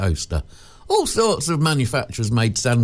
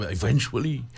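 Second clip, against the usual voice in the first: Manuel impression; 3 semitones lower, 5 dB quieter than usual. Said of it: "as Manuel used to".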